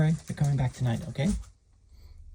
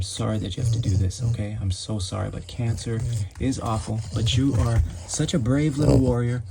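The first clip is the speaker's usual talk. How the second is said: tender comfort; 3 semitones lower than usual. Real, not acted. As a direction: hold the dog close in your voice. Comforting dog before surgery.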